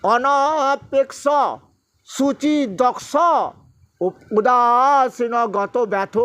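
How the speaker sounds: slow, measured chanting of scripture; Sanskrit verse recitation. Acted. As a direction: intone each verse with pauses. Recites Gita verses in class. (ধীর লয়ে শ্লোক পাঠ)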